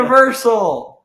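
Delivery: high, loud and drawn out, slow; excited shout. Real, not acted. Kid calling out Florida places to a friend, slow excited shout. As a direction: cheer the name out slowly.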